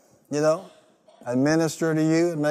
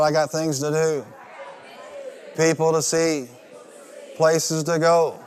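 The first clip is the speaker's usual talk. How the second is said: shout it out. Shown as a demonstration. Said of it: "Come on, shout out".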